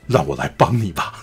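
low, soft imitation of a suave hero; understated show-off smoothness, played for comedy; mock cool. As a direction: drop the voice and offer help coolly. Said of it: "他耍帅都耍在很奇怪的地方".

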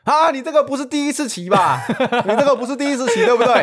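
high, loud mock old-man voice; nosy old man teasing a new rider, hammed up high; imitating the old man. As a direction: ham up a chatty old uncle. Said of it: "阿伯第一句话就说".

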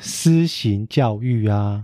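slow, deliberate pronunciation; careful enunciation. Shown as a demonstration. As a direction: say each syllable slowly and clearly. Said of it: "可以发音标准一点吗".

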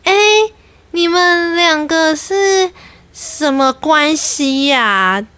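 pry sweetly, savouring the gossip; fake concern, nosy. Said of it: "假关心、真爱听八卦的那种语气".

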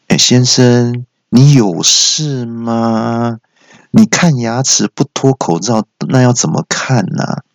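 slow, drawn-out incredulous questioning; exasperated assistant. Acted. Assistant challenging the masked patient, exasperated. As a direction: drag the words out in exasperation. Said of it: "那小姐就说".

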